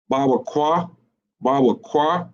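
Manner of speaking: hesitant. Shown as a demonstration. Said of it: "you can hear that hesitation in voice".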